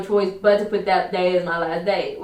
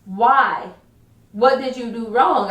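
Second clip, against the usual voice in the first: mildly incredulous retold question; WTF reaction; 2 semitones higher, slower than usual. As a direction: imitate a baffled coworker, lightly. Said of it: "it was his W T F moment".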